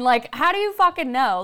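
ordinary delivery

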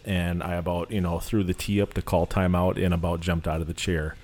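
talking around gauze; words muffled by gauze in mouth. Real, not acted. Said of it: "I've got some gauze in my mouth".

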